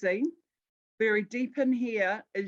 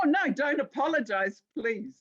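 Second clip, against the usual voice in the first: laughing; 4 semitones higher than usual. Real, not acted. Speaker laughing reassures audience member.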